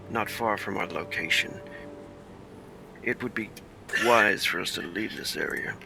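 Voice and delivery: hushed, in-character report taken aside; confidential. Acted. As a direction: speak softly so nobody overhears. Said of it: "nobody else can hear this".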